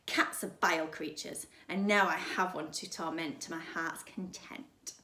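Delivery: cold and deep, savouring the cruelty. Acted. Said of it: "Her voice was deeper now".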